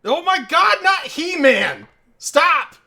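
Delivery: frantic high yell, stretched out; panicked shouting. Real, not acted. Friend pushing buttons, panicked yelling.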